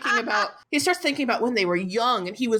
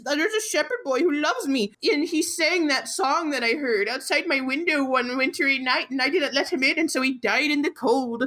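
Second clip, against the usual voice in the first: raised-pitch mock lament; mock crying; 5 semitones higher than usual. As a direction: imitate the tearful wife's confession. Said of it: "And she starts crying".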